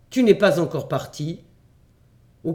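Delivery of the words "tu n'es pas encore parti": exclaiming. Acted. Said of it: "m'écriai-je".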